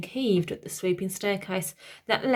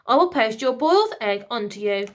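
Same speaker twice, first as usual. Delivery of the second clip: robot calling out; 3 semitones higher, 5 dB louder than usual. Acted. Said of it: "it called out after them".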